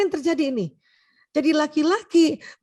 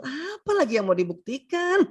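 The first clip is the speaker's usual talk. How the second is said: stretched, puzzled protest; baffled husband, acted. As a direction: play a husband mystified by his wife. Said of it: "bapak-bapak tuh suka heran sama istrinya". (suami heran, diperagakan)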